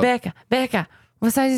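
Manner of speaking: poor attempt at a Brazilian accent; Brazilian mom's accent. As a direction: imitate a Brazilian mother's English, badly. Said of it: "Can you do my mom's accent?".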